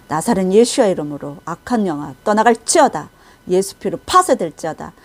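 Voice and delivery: firm, declaimed prayer of rebuke; retold prayer against evil spirits; warfare prayer. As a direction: recite it as a commanding prayer. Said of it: "대적 기도를 가리키고 있더라고요".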